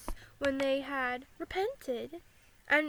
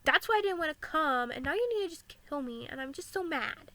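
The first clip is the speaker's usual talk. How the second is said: Jonah's complaint, a touch loud and upset; mock angry Jonah; 6 dB louder than usual. Jonah telling God off, mildly angry. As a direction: blurt it out like a sulking prophet. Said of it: "He was like".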